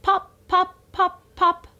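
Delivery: high, punchy pop pop; bubble-popping play voice; playful popping. Shown as a demonstration. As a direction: pop each P crisply for the baby. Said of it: "practice the P sound".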